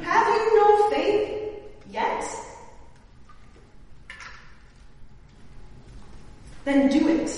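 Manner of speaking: a mock Jewish-accented Jesus daring them to act. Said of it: "I imagine he has some Jewish accent".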